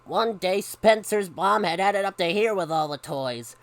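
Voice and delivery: animated picture-book reading; lively storyteller; story narration. A narrator's reading. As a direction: read it brightly to children with punched key words. Reads a story aloud.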